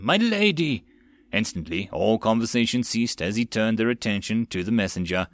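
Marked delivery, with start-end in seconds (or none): 0.0-0.8 breathless high call; out of breath, urgent; urgent panting report. A narrator's reading. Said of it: "A breathless messenger".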